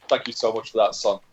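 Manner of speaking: a hint of a chuckling old dad thanking the lad; grateful dad. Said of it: "And his dad just goes".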